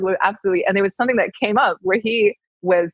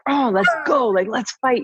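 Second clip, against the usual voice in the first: higher-pitched, eager battle cry at normal volume; primal fighting energy; 5 semitones higher than usual. Retold or imitated. Guest acting out how couples rise into an argument, primal and eager. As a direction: imitate someone itching for a fight. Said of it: "rise into that sort of primal energy".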